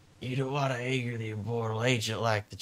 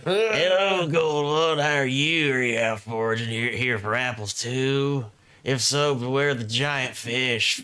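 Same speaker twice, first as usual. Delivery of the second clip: hippie voice. Acted. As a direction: sing it out like a mellow hippie. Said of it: "That's not hippie?".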